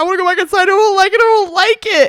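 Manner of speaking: frantic scared panic, very high, very loud, shrill. Retelling how Reed slipped on the icy driveway: imitating Reed panicking. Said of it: "a video of Reed panicking".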